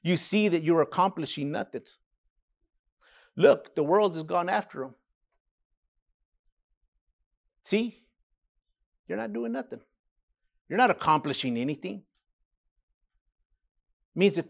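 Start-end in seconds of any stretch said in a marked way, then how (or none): 0.0-12.0 muttering Pharisees. A narrator's reading. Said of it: "the Pharisees therefore said among themselves".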